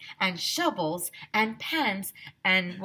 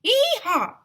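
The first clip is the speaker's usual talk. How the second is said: high whooping holler, much louder; shouted; 8 dB louder than usual. A narrator's reading. Teacher whooping in the gold rush. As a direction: whoop like a cowboy.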